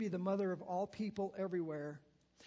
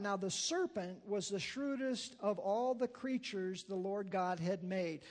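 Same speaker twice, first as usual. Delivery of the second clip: scripture reading. Real, not acted. Reads scripture aloud.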